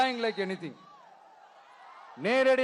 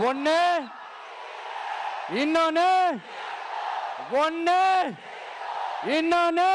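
building rally shout; 5 semitones higher than usual. Real, not acted. Leader counting rivals to the crowd, rising into a shout.

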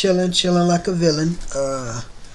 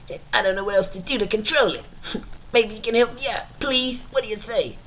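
Quagmire impression; 4 dB quieter than usual. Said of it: "my Quagmire voice impression".

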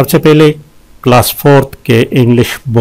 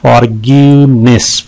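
"फॉरगिवनेस" in three clear beats; syllable breakdown. Shown as a demonstration. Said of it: "तीन है इसमें". ("फॉरगिवनेस" तीन साफ़ हिस्सों में)

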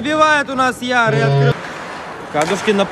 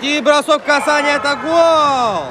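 excited hockey goal call; 3 semitones higher, slower than usual. Real, not acted.

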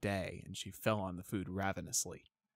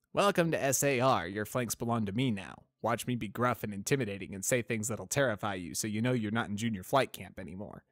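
tough drill sergeant; 3 semitones higher, 6 dB louder than usual. Retold or imitated. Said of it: "the old tough mare act".

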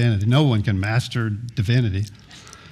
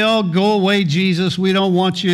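dismissive brush-off; 5 semitones higher than usual. Retold or imitated. Listener imagined brushing off Jesus, mock dismissive. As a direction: wave Him off in mock annoyance. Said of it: "You might say".

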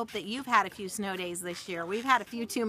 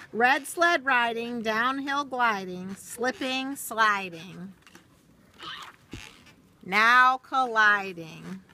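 lilting, rhythmic storybook read; reading to children; much slower than usual. Acted. Teacher reading a rhyming book to children, storybook lilt. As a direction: read the rhyme slowly to little listeners, sing-song. Reads picture book aloud.

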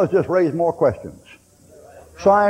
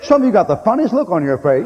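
ordinary talk

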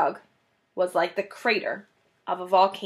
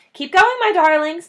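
panting; 8 semitones higher, 4 dB louder than usual. Acted. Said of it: "panted Mister Fox".

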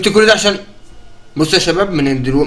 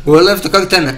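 laughing through the words; giggling at his own double; 2 semitones higher than usual. Real, not acted. Player laughing at his lookalike, laughing.

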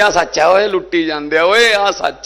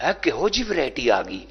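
mocking opponents; 4 semitones lower, 5 dB quieter than usual. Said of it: "ਸਾਨੂੰ variety ਉਹ ਦੱਸਦੇ ਆ".

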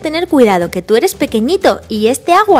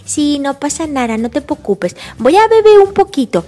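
put-on unworried toddler in baby talk; little George. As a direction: brush it off like a small child. Little George brushes off the warning.

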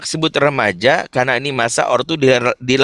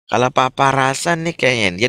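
gentle feeling tone. Shown as a demonstration. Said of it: "pakai perasaan".

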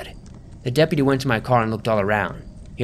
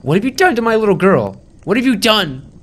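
much higher, loud hysterical screech; screaming; 10 semitones higher, 7 dB louder than usual. Acted. Mother attacking the narrator, hysterical loud screaming. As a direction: shriek it as you charge him. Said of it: "She charged at me screaming".

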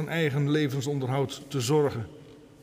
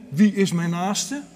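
higher, louder, slow self-assured question; chest out, chin up; 4 semitones higher, 4 dB louder than usual. Acted. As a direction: ask proudly, chest puffed out. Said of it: "borst vooruit, hè, kin omhoog".

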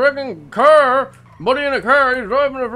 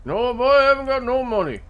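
put-on thick rural accent. Local insists this is how he always talks, thick rural accent. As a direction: lean hard on the rural accent and the boy.

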